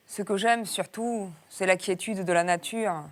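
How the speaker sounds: put-on reading in a southern French accent. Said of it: "je prends cet accent du Sud".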